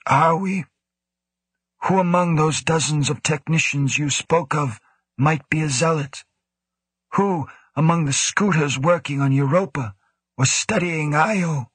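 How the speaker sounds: lightly voiced cool commanding official; stern director. A narrator's reading. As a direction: speak as the stern station director. Woe questions Grant.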